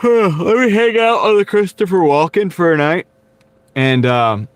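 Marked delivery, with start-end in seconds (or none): 0.0-3.0 Christopher Walken impression. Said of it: "I can do a Christopher Walken".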